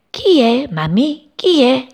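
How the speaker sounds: high, loud eager asking; eager questions. Acted. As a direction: press mum to know who. Siblings ask excitedly. (domande acute e impazienti)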